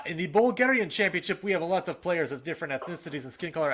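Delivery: put-on lightly done Russian accent. Host quoting a Bulgarian official's letter, light Russian accent. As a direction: slip into a slight Russian accent. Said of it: "I'm doing a Russian accent".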